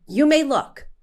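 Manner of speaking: loud on may, then slow and deliberate; firm loud warning. Retold or imitated. Patient warning the dentist, loud then slow. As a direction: lay down the law, word by word. Telling the dentist not to touch.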